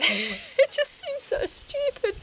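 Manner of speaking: high, slow, laughing at yourself; laughing self-mockery. Real, not acted. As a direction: giggle it out as if embarrassed. Laughing at own silly mantra.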